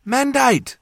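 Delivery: high, loud cry of the name; urgent female voice. A narrator's reading. Jas calling to an injured man, high and urgent. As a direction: call out high and sharp. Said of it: "the voice said tearfully".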